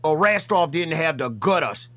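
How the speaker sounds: put-on rough Australian accent for the bit; put-on Aussie accent. Yo Mama calling out Buff Weeb in a put-on Aussie accent. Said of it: "Why are you Australian?".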